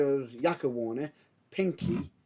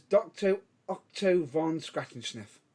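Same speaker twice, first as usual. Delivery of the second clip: slow careful naming. Shown as a demonstration. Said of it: "say the other character name without laughing".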